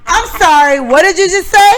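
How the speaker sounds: retold indignant outburst; indignant retort. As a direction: throw her own words back at her, disbelieving. Retells confronting the seat-stealer.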